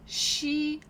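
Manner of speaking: считать split in two, with a long high first syllable. Shown as a demonstration. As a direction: break считать into slow, separate syllables, pausing between them. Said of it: "read these words together".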